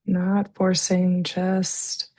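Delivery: calm, unhurried breathing guidance with long pauses; guided meditation. Real, not acted. Leads slow breathing exercise.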